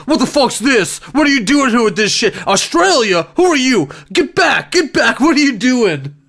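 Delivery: hammed-up hostile man; mock aggressive stranger. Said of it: "Not like".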